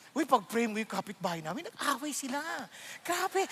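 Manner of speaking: gossiping. Pretend. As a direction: lean in like sharing juicy news. Mock gossip disguised as prayer request. (pabulong na tsismis)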